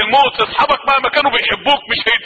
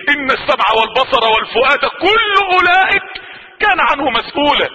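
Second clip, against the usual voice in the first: forceful recitation. Acted. Preacher warning listeners they will be questioned, forceful chant. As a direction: proclaim the verse with force.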